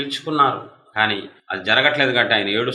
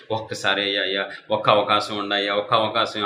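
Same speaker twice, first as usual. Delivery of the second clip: mild mock crying plea; 3 semitones lower, 4 dB quieter than usual. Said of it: "ఒక lady ఏడుతుంది".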